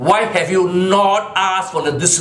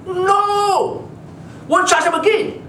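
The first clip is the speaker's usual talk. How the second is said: much higher, squeaky mock prosecutor; 11 semitones higher, much slower than usual. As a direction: ham up the prosecutor's meek backing-down. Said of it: "And the D P P says".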